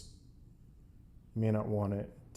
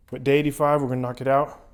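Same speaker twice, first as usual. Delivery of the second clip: excited; 3 semitones higher, 8 dB louder, faster than usual. Real, not acted. Hyping up the cold plunge.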